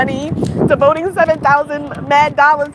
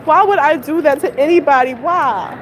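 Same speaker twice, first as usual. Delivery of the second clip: exasperated; 5 semitones higher than usual. Real, not acted. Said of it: "I'm so angry".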